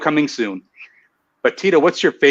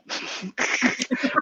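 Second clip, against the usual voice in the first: embarrassed laugh; 11 semitones higher, 9 dB quieter than usual. Real, not acted. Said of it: "so bad".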